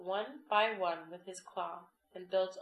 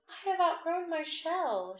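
little crab voice; 9 semitones higher, 5 dB louder than usual. A narrator's reading.

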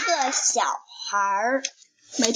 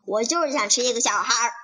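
fast, impatient insistence; 不耐烦地快速说; irritable; faster than usual. Acted. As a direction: rattle it off like a cranky child. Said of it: "琪琪烦躁地说".

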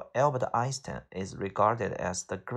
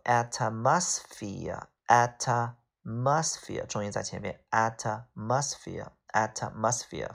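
atmosphere, slowly, with the stress on AT; stress on first syllable; much slower than usual. Shown as a demonstration. Teacher drilling a new English word, front-stressed atmosphere.

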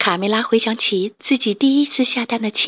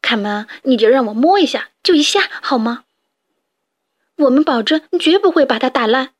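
pleading; 3 semitones higher, 3 dB louder than usual. Acted. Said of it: "祈求道".

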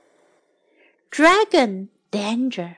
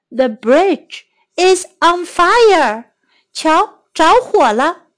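slow clear demo; 5 semitones higher than usual. Shown as a demonstration. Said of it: "teacher repeats sentence slowly".

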